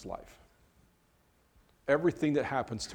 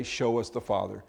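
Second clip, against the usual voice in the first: Jesus echoing. Retold or imitated. Jesus repeating Philip's words, a doubting echo. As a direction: hand the words back in disbelief. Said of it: "How can you say".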